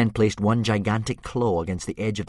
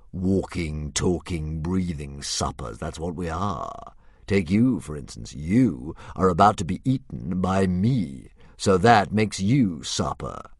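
cheerful philosophising dragon. Acted. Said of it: "said the dragon cheerfully".

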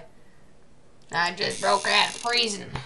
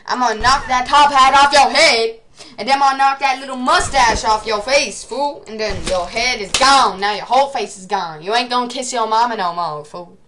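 tough-guy trash talk; 4 dB louder than usual. Pretend. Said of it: "Why, why am I talking like that?".

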